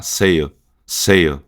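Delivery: "Sale" said slowly as a foreigner would; gringo-style pronunciation. Shown as a demonstration. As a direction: draw out "Sale" with a light, unclosed ending. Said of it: "ele vai falar parecido com isso".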